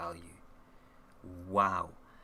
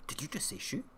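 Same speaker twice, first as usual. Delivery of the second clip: delighted disbelief; 11 semitones higher than usual. Retold or imitated. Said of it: "And I'm like".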